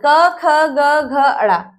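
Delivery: क, ख, ग said very slowly, one at a time; reciting letters slowly. Shown as a demonstration. Teacher reciting the क वर्ग letters for the class, slow. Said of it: "क वर्ग".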